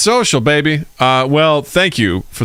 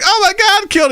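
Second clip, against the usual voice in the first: mock panic. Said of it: "she's like".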